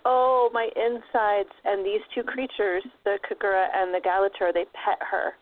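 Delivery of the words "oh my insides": slow, drawn-out groan of pain; a touch of a pained wail; moaning lament. Retold or imitated. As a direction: stretch out a mock moan. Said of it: "and she cries".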